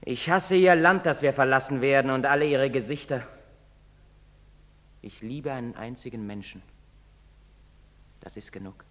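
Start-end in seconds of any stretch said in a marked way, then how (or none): 0.0-3.2 hateful outburst. Acted. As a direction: spit out the hatred. Acted monologue of hatred.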